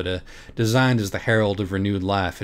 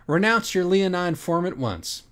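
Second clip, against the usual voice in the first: slow, high, grand command to the beast; commanding decree; 9 semitones higher than usual. Acted. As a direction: declaim it slowly like a queen. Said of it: "she said".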